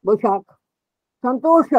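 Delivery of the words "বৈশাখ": বৈশাখ ending in kh, not sh; kh for written sh. Shown as a demonstration. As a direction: say বৈশাখ with a final kh sound. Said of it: "মূর্ধন্য স লিখছে কিন্তু বলবে".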